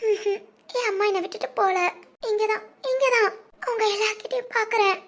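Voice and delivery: quiet, choked-up crying; hushed tears of gratitude, barely holding it together; tearful. Acted. Veni tells the family she thought her mother left her, quietly weeping. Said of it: "எதுக்கு அழுகுற?".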